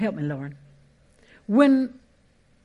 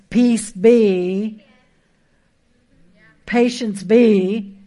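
building proclamation, louder toward the end; pastor's rising declaration, last word slowed; declaring blessings; 8 dB louder, much slower than usual. Acted. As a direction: speak each blessing into being. Declaring blessings over things.

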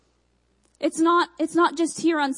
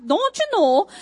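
exaggerated Michigan accent, pitched up and louder; 6 semitones higher, 5 dB louder than usual. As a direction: imitate a sister's thick northern accent. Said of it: "if you talk to my sister".

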